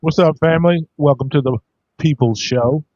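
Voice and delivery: booming wrestler catchphrase; loud entrance shout. Acted. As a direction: shout it to the crowd.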